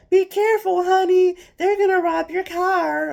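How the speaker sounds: mocking church lady. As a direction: ham up a condescending busybody. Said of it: "Had this one idiot gonna come up to me".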